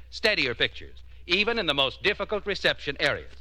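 measured, polished announcer pitch; old-time radio commercial delivery; radio ad read. Acted. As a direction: sell it with deliberate emphasis on key words. Announcer reads television advert.

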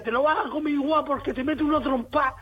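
a hint of a stern mum, laughing through it; playful scolding mum; mother's mock threat. Mum threatening her boy over dinner, half laughing. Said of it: "mi madre me decía".

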